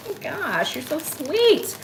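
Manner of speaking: high, drawn-out gush of thanks; touched gushing. Retold or imitated. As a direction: gush it sweetly, stretching the end. Acting out her reply to Michelle's offer.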